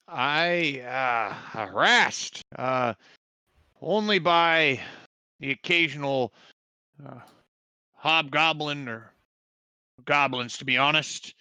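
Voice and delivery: put-on a wary old villager; village quartermaster.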